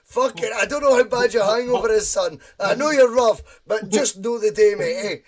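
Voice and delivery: emphatic scolding. Real, not acted. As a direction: tell him off loudly, punching the words. Host mock-scolds guest over resignation talk.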